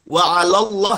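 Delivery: wa 'alallah with the faulty rounded lo; thick lam. Shown as a demonstration. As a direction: darken 'ala to 'alo in wa 'alallah.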